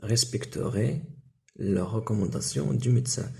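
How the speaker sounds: slowed, careful reading; slow model phrase. Shown as a demonstration. Teacher slowly models the answer for pupils. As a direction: lay out each word for the class. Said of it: "عندنا vous".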